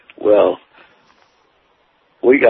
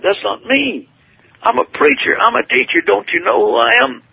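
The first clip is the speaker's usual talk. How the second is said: much higher pleading cry of disbelief; desperate protest; 11 semitones higher than usual. Retold or imitated. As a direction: insist on who you are, voice pitched high in panic. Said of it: "I cried".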